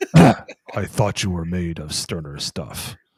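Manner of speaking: robot leader character voice. Quoting a line after saying they always tried the voice: Optimus Prime voice. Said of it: "I've tried to do his voice for my entire life".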